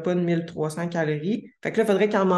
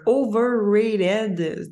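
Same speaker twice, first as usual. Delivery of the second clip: overrated said slowly with a French speaker's English accent; 4 semitones higher, 3 dB louder, much slower than usual. Real, not acted. Podcast host to her listeners, overrated in an English accent. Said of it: "désolée pour mon accent anglais".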